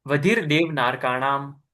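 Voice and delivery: slow, careful Sanskrit sutra chant for the student to repeat; model recitation. Shown as a demonstration. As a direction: recite it slowly, syllable by syllable, as a model. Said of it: "भव प्रत्ययो".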